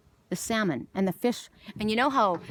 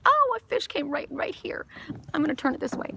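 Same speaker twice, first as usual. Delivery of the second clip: real whisper; 7 semitones higher than usual. Real, not acted. Fish surfaces nearby.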